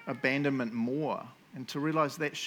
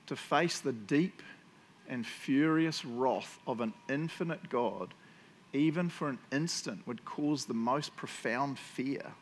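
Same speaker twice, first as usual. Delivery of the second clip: slow, measured reading of a quote. Real, not acted. Preacher reading a powerful quote to the congregation, slowly and deliberately. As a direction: read it out slowly, weighing each phrase. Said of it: "I'll read it quite slowly".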